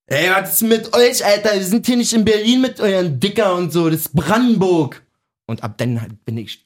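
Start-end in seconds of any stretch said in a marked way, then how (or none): 0.1-5.0 acted-out pitch-side rebuke; indignant telling-off. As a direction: retell it as a heated challenge. Acted confrontation with opponents on pitch.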